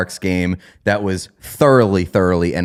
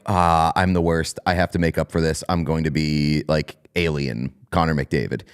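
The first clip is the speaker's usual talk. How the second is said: lower, softer self-scolding mutter, lightly voiced; imitating Connor McDavid; 6 semitones lower, 4 dB quieter than usual. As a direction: grumble at yourself after a mistake. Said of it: "he immediately is like".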